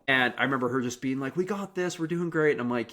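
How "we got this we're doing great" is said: bright, higher, cheering on a tired partner; pep up the runner beside you; upbeat encouragement. Retold or imitated. Runner cheering her coach on the climb, upbeat and high. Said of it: "Jenny's just happy".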